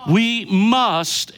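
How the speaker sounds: firm, punched stress on "must"; emphatic. Real, not acted. Preacher restating the key statement to the congregation, emphatic. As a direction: hit "must" hard to drive the point home. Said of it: "I wanna say this emphatically".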